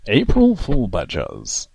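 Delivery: loud announcer read. Retold or imitated. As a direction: boom it like an announcer. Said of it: "says like an announcer".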